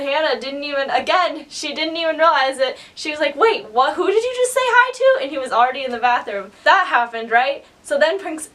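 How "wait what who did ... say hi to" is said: incredulous question climbing high; mock baffled, pitch rising through the question; retold bewilderment. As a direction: imitate a friend doing a double-take. Friend's confused question, retold.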